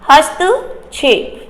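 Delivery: हस्तक्षेप said slowly, each cluster clear; teacher slowing हस्तक्षेप; slow careful pronunciation. Shown as a demonstration. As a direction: drag हस्तक्षेप out syllable by syllable. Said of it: "यहां देखिए हस्तक्षेप".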